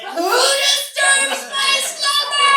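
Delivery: booming, high, slow cavern voice; Cave of Wonders voice. Pretend. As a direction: rumble it out like a giant stone cave. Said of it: "I turn into the Cave of Wonders from Aladdin".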